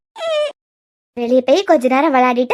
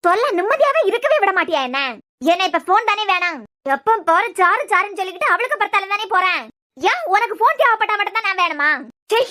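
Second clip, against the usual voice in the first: exasperated, higher-pitched scolding; irritated scolding; 3 semitones higher than usual. Acted. Irritated woman scolds child who keeps running to Charu, exasperated.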